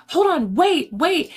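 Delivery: a sudden high alarmed call to halt; urgent stop. Retold or imitated. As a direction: yell wait before the knife comes down. Bev stops the stabbing.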